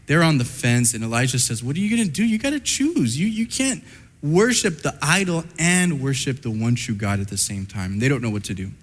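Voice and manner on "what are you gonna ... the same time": urgent challenge. Acted. Elijah confronting the people.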